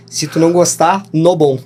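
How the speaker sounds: a mild mock foreign accent on "no bom"; Chinese speaker's broken Portuguese. Mimicking Chinese bosses giving disapproval, lightly accented. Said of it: "que eles falavam".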